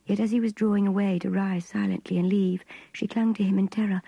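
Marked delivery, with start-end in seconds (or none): none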